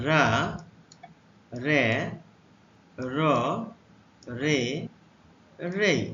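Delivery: রা, রে, র, রে, রেই said one by one, slow and clear; teacher modelling রা রে র রে রেই; letter sounds demo. Shown as a demonstration. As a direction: model রা রে র রে রেই with a pause after each. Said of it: "আর এর উচ্চারণ".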